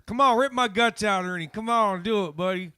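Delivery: loud, high begging; excited pleading. Real, not acted. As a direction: shout it, urging him on. Begging friend to sing.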